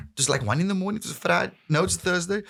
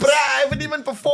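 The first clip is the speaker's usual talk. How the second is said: high, loud protest; protesting yell; 13 semitones higher, 3 dB louder than usual. Retold or imitated. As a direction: push back loudly, half panicked. Protesting to teammate.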